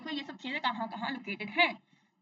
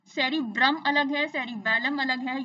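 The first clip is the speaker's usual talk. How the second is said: slow, firm contrast of "सेरिब्रम" against "सेरिबेलम"; contrastive stress; 5 dB louder than usual. Shown as a demonstration. Teacher telling students the two terms differ, contrastive stress on "सेरिब्रम" and "सेरिबेलम". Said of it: "याद रखना".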